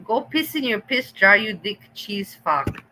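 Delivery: quoting the insult back with relish; mock quote of the insult; mocking repeat. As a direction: throw the insult back, half laughing. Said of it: "That's what it was".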